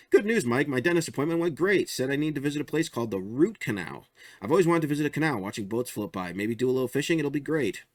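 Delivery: bright, proud, oblivious; cheery goofy character. Acted. Ralph bragging to Mike about his dentist visit, cheery high voice.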